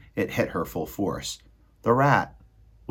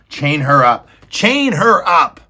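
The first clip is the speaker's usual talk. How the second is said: higher, loud shout; Roscuro shouting; 7 semitones higher, 12 dB louder, slower than usual. Acted. Rat shouting at the girls, loud. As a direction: bark the order.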